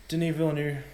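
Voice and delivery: "Villeneuve" ending in an open oo sound; first pronunciation guess. Shown as a demonstration. Host guessing at a director's name, tentative pronunciation. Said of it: "however you pronounce it".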